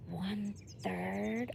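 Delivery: slow stunned one-third; shocked. Real, not acted. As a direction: draw it out in disbelief. Shocked at statistic.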